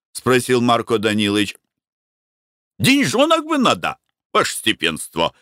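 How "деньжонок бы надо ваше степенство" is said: high pleading worker's voice; humble worker. A narrator's reading. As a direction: ask the master humbly, pitched up. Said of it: "сказал Карп Егоров". (рабочий просит хозяина, высоко и просительно)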